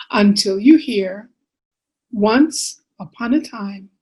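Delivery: measured storytelling with lilting phrases; picture-book reading. Acted. Author reading bedtime book to children, expressive storytelling. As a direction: read to little ones, pausing between phrases.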